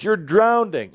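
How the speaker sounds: mock the body's panicked yell; hammed-up drowning alarm; mock alarm scream. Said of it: "that scream, like I just did".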